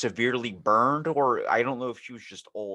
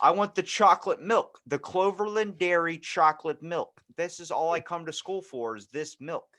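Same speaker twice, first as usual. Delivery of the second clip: put-on demanding kid; 7 semitones higher than usual. Retelling how he begged the cafeteria for chocolate milk, whiny kid demand. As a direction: beg for it like a stubborn schoolkid.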